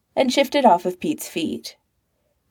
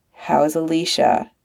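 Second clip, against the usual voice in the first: dutiful; 2 semitones lower than usual. Acted. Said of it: "Pete said dutifully".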